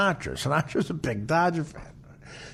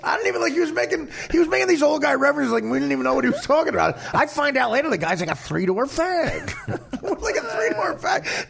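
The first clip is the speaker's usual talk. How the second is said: higher voice breaking into laughter; tickled, giggling retelling; laughing while talking; 11 semitones higher than usual. Real, not acted. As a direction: barely get it out for laughing. Cracking up retelling old slang.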